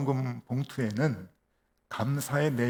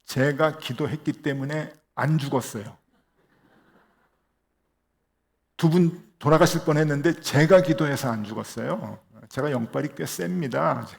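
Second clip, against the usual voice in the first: louder, sharp comeback at the deacon; retorting sharply; 6 dB louder than usual. Retold or imitated. Pastor snapping back at the teasing deacon, louder retort. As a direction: fire the words back, half playful. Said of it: "쏘아붙였냐면은".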